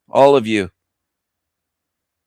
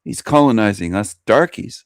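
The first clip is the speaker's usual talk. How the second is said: hushed quote; 3 semitones lower, 5 dB quieter than usual. Retold or imitated. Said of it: "And they'd say".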